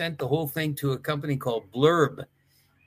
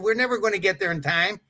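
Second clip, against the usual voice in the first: higher, quicker imitation of Wahoo; Wahoo's voice; 5 semitones higher, faster than usual. Complaining about the time, imitating Wahoo higher and faster. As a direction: push it fast and high, imitating Wahoo. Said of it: "Wahoo used to talk like this".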